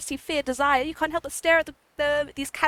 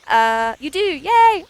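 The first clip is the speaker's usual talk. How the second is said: excited; 3 semitones higher, 8 dB louder, much slower than usual. Acted. Cheering a character appearing.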